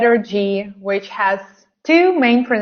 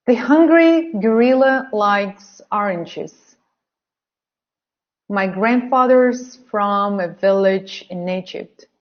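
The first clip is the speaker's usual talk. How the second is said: careful modelled reading for learners. Shown as a demonstration. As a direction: read clearly for repetition. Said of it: "say the sentences out loud".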